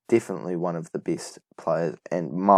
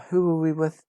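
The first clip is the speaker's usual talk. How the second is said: voice crack; 10 semitones higher than usual. Real, not acted. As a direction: voice cracking up high. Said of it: "Nice wee voice crack".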